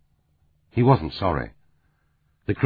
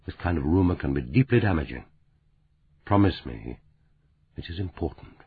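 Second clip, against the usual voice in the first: more firmly; 5 dB quieter than usual. Acted. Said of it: "Dauncey said more firmly".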